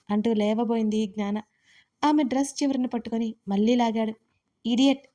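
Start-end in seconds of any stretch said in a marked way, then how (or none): 4.7-5.1 louder sharp rebuke; angry snap; snapped scold. Acted. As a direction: scold him in one word. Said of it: "కసిరింది".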